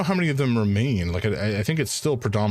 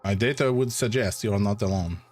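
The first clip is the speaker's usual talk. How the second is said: hammed-up French accent, data said as teta; a bad French accent; terrible French accent. Doctor answering about dreams in a bad French accent. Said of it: "It's a terrible French accent".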